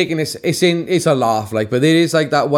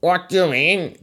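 mock-baffled mimicry of a co-host; put-on puzzled voice, a little higher; imitating co-host; 4 semitones higher than usual. Host mimics his co-host's reply to a Welsh greeting, imitated bafflement. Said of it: "Paul kinda went".

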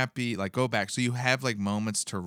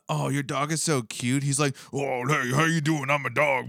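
higher, louder voicing of a dog; a light put-on dog voice; 5 semitones higher, 4 dB louder than usual. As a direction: speak for the dog, pitched up. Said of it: "I'm doing the dog's voice".

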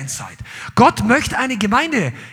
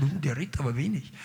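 low muttered aside, much softer; mock murmur; 10 semitones lower, 12 dB quieter, faster than usual. Congregation members mocking a quiet young man, murmured softly. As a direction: murmur it like gossiping onlookers. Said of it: "Dann haben die Leute alle angeschaut".

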